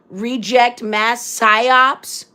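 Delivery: slow, deadpan reading of "Reject mass psyops"; reading a troll comment. Retold or imitated. Reading a troll's comment aloud on her live, slow and deadpan. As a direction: drag out "Reject mass psyops" word by word, mocking. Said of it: "oh, victim mentality".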